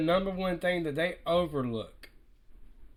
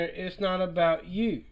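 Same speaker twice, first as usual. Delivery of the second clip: calm quote. Retold or imitated. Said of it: "He said it in a calm manner".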